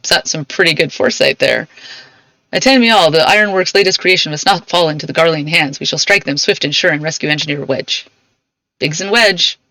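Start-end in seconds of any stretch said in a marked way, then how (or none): 2.5-8.1 rallying leader. Acted. Cid rallying the crew to rescue Wedge, firm command. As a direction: summon the troops with resolve. Reads Cid's rallying lines.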